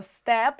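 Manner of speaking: СТЕП with a clear, full Е; чітке Е. Shown as a demonstration. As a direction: let the Е ring clearly in СТЕП. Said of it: "де чітко чується Е". (СТЕП з виразним Е)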